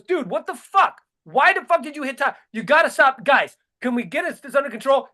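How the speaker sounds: exasperated mock Biden. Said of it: "and he goes".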